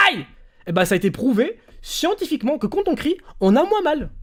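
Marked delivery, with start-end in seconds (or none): 0.1-0.3 demo pain cry. Shown as a demonstration. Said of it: "Qu'est-ce qu'on fait quand on a mal?".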